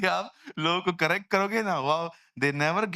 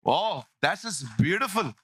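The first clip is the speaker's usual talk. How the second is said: mock admiration; much slower than usual.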